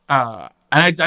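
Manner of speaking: normal talking voice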